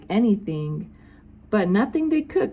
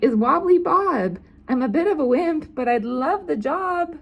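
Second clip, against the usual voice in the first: high, louder timid cook; 9 semitones higher, 4 dB louder than usual. Acted. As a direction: announce yourself as a nervous wimp. Timid cook introduces himself.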